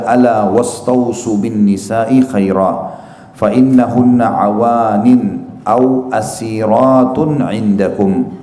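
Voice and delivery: very slow, measured Arabic recitation; hadith recitation. Acted. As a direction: draw out each Arabic word solemnly. (melafalkan hadis pelan dan panjang-panjang)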